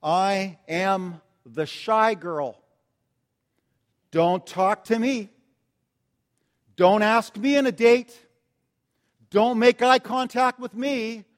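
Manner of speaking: slow, timid voicing of a shy teen; a light hint of a shy girl pleading; shy girl's sign. Pastor voicing shy Gail's imaginary sign, timid and slow. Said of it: "a sign around her that said".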